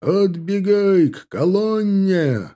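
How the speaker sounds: high, slow, carrying shout; shouted command. A narrator's reading. Officer ordering the line back, shouted command. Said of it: "разнеслась по цепи новая команда".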